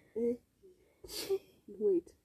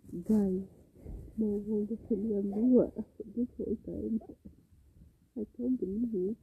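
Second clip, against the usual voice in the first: outraged; 6 dB louder than usual. Real, not acted. Outraged at childhood lies.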